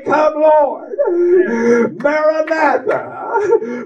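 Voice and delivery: drawn-out, ringing call of Maranatha; joyful greeting. Retold or imitated. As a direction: sing out the farewell like a glad believer. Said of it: "they'll say".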